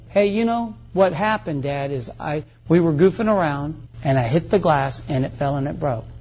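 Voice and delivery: lightly voiced kid owning up; child admitting fault. Child tells dad who broke the glass, mildly confessing. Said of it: "get my kids to admit".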